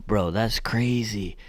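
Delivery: slow, breathy whisper of disbelief; awed whisper. Real, not acted. Reviewer stunned by the shoe's weight, slow awed whisper. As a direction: whisper it like you can't believe it. Repeats line, second whispered.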